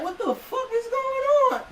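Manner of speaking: shrieking in panic; panicked yell. Retold or imitated. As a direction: yell it like you're being crushed. Panicked reaction in crushing crowd.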